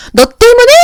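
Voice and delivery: 너 때문에 shouted high and accusing; blaming shout. Shown as a demonstration. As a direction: snap it out as a blame. Bad example, blaming you-message. (탓하며 높게 버럭)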